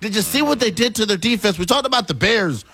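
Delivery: high, fired-up sports argument; fired-up hype. Real, not acted. Hyping the Bengals to cohost, fired up. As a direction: pitch it way up and push the case.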